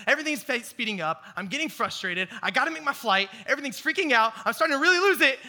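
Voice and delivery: building from plain to high and loud; mounting panic. Retold or imitated. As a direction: let the panic climb. Retelling panic at airport.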